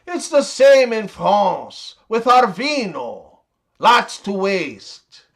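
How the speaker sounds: light mock French accent; French accent, slowing on the last phrase. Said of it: "French guy says".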